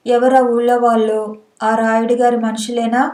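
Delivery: ordinary delivery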